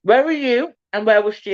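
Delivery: chewing while asking; mouth full. Real, not acted. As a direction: talk through a mouthful of burger. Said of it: "I'm still with my mouth full".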